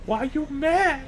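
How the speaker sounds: squeaky, slow sassy question; high sassy voice. Pretend. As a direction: pitch it way up, drawn out. Echoing the video line higher.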